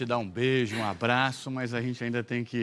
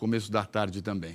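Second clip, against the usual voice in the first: ordinary talk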